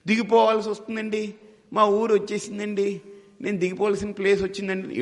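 high-pitched mock tearful complaint; hammed-up whimper, pitched well up; mock crying. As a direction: play a passenger wailing over getting off. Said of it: "ఎందుకు ఏడుస్తున్నావా".

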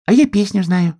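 a tiny hare showing off; tiniest sun hare. A narrator's reading. Smallest sun hare offers his song, high eager voice. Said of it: "сказал самый маленький солнечный заяц".

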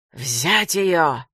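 mild loud bark; barked order. A narrator's reading. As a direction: snap the order out. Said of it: "рявкнул Аурватор Даркасар".

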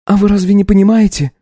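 put-on high young wife voice, taken aback; lifted, incredulous young woman; Katya, startled wife. Wife asks her husband to repeat himself.

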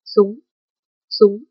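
a dying man's strained cry. A narrator's reading. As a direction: push the words out harder. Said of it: "âm thanh cũng lớn hơn". (giọng yếu nhưng to hơn)

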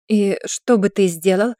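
slow, cold and distant; cool slow question; coldly. Acted. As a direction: freeze him out. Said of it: "холодно произнесла она".

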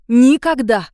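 громкий, торопливый выкрик «Никогда!»; выпали отрицание слишком быстро; поспешно. A narrator's reading. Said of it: "сказала Марго поспешно". (Марго поспешно отрицает перед ведьмой, громко)

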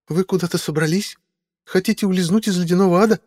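put-on high, startled then suspicious girl's voice; a nervous young woman catching them red-handed; young woman Meadowlark. A narrator's reading. Meadowlark questions Simon about the food cart, high suspicious young woman.

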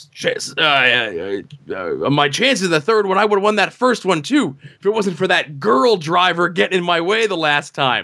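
stammering, then high and whiny; a touch of sore loser; heel promo. Retold or imitated. Racer blaming the girl driver, mildly whiny heel. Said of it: "And he's like".

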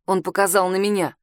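usual speaking voice

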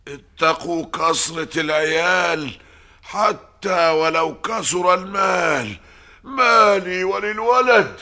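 loud solemn pronouncement; roaring proclamation. Acted. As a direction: thunder out the proverb. Priest proclaims a proverb.

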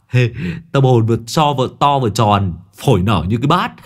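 leer and start to laugh; sniggering. Acted. Long snickers. (Long Đầu Đất vừa nói vừa cười khẩy)

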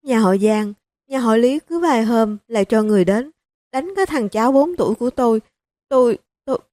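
a mild catch of crying at the end; telling through tears. Acted. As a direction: grandmother telling how her grandson was beaten, lightly tearful. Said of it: "Bà mẹ chồng vừa khóc vừa kể".

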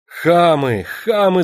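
high, loud, contemptuous; furious cry. A narrator's reading. Yulka screams at the men, furious. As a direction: hurl the insult. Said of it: "закричала Юлька".

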